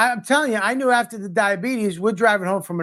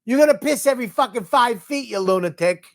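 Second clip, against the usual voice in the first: exasperated yelling; 5 semitones higher than usual. Retold or imitated. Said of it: "I go".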